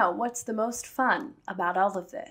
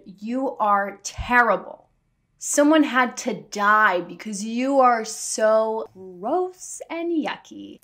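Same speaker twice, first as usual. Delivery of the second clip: mock preacher; 3 dB louder, slower than usual. Mocking preachy doctrine voice.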